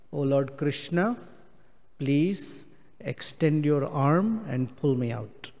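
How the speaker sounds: soft, slow pleading prayer, a touch of tears; crying prayer. Acted. Fallen devotee cries to Krishna to pull him out, soft pleading. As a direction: plead quietly and slowly for rescue. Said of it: "And now I'm crying".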